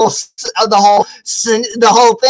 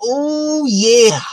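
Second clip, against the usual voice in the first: cocky challenge. Retold or imitated. Woman invites him to fight, cocky challenge. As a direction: savor the challenge, taking it slowly. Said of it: "she's like".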